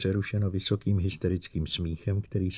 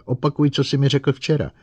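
sharp loud demand; 7 semitones higher, 6 dB louder than usual. Acted. Bogert demands repetition.

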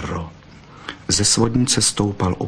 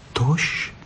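sighed; 6 semitones higher than usual. A narrator's reading. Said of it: "vzdechla Bystrouška".

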